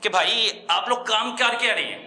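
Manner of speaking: heated public condemnation; indignant outcry. Real, not acted. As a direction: denounce them with real outrage. Reporter denouncing food department.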